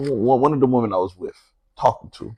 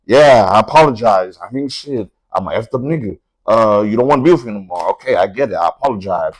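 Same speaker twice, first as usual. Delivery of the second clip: mock resigned confession.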